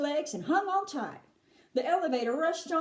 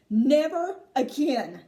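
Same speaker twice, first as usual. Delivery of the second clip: gasped; 6 dB louder, slower than usual. Acted. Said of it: "gasped Missus T V".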